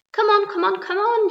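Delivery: high, loud come-on shout; impatient shout. A narrator's reading. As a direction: hurry her up at full voice. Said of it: "shouted the centipede".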